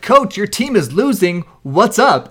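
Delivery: mock sideline reporter, a bit high and loud. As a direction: put on a peppy, measured interviewer voice. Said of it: "the guy's like".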